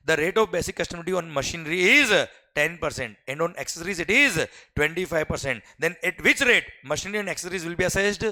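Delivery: very slow, each word spaced out for note-taking; slow dictation. Shown as a demonstration. Teacher dictating the customs question to the class. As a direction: read it out so students can copy.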